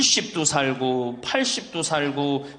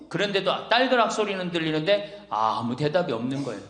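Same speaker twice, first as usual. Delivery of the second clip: ordinary delivery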